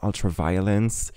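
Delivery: album titles in a put-on British accent; self-mocking British accent on English titles. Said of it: "excusez mon accent anglais".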